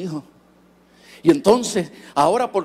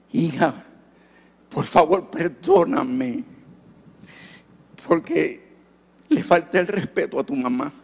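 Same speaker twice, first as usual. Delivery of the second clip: retold tearful apology. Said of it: "Y yo llorar".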